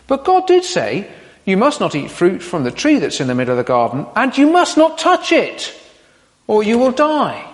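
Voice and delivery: overstate the rule like a nervous Eve; Eve's exaggeration. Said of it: "Eve, where did you get that from?".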